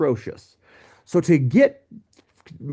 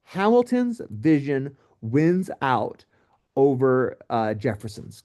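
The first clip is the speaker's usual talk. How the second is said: "Hamilton's vision wins out" said slowly, each word weighed; slow it right down so it sticks; slow emphatic restatement; slower than usual. Shown as a demonstration. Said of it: "Remember, that's important to know".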